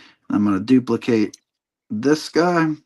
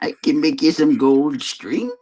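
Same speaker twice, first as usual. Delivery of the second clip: sly little goblin, toned down; fairy tale imp voice; 3 semitones higher than usual. Pretend. Fairy-tale imp offering gold.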